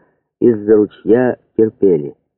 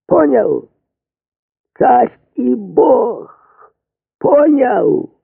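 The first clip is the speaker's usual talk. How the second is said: urgent rousing call. Acted. Chief of staff rousing the commander.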